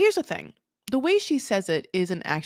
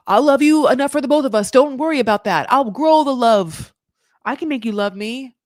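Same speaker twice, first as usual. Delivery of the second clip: mock desperate lover; 3 semitones higher, 4 dB louder than usual. Voicing Matthew's desperate reply.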